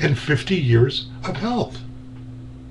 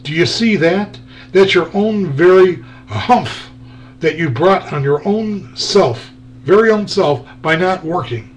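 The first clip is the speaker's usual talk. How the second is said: genie. Acted. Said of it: "the genie said".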